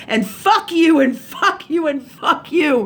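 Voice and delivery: heated retold outburst; retold pissed-off. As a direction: re-enact telling someone off, each repeat punched. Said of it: "And I was pissed".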